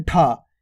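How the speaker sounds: ढा with an aspirated push; forceful ढा. Shown as a demonstration. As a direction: push breath out on ढा. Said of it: "थोड़ा जोर लग के हो रहा है". (ढा ज़ोर देकर)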